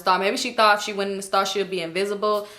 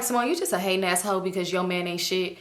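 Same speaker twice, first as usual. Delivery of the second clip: quiet self-scolding; inner voice; 3 semitones lower, 6 dB quieter than usual. Retold or imitated. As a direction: mutter it to yourself. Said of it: "thinking to myself".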